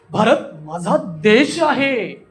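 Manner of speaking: very slow, with "देश" stretched long; drawn-out words. Shown as a demonstration. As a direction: draw out "देश" with a falling close. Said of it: "त्यांना असं लांबवतो".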